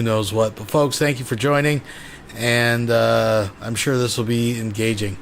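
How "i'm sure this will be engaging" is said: sarcastic. Real, not acted. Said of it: "That was sarcasm".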